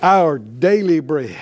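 slow, loud, laughing lead line; slow prayer call. Shown as a demonstration. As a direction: pastor leading the church in prayer, slow and loud. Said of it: "Say it out loud".

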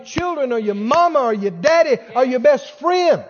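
building sermon intensity; preaching emphasis. Real, not acted. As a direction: hammer the list home.

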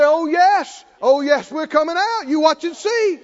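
loud, high proclaiming shout; shouted declaration. Shown as a demonstration. Preacher shouting the confession to the congregation. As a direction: shout it out in faith. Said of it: "You gotta say".

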